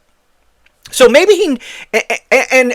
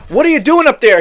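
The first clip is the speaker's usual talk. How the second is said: reporters yelling; 7 semitones higher, faster than usual. Retold or imitated. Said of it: "He also did".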